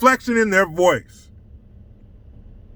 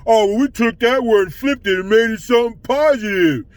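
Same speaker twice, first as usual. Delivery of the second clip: mocking quote. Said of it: "dumbasses who say".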